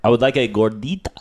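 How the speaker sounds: gordita said the Spanish way with a rolled R. Retold or imitated. White diner ordering at a Mexican restaurant, Spanish gordita. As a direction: give gordita a proper Spanish R. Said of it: "you rolled your R's".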